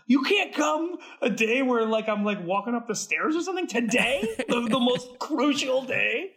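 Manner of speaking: high, laughing mock complaint to a friend; mock exasperation. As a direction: tease him for the worst timing. Mock scolding Todd on set.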